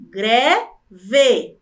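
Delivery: syllable by syllable. Shown as a demonstration. Teacher showing two syllables, loudly separated. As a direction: pause firmly between the syllables of "greve".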